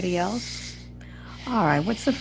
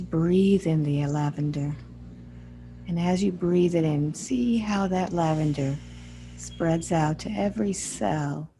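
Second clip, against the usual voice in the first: guided meditation. Acted. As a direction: guide them gently through the imagery, unhurried. Guides a healing visualization.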